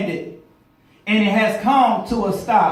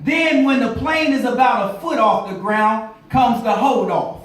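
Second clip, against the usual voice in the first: preaching. Acted. Pilot lesson turned sermon.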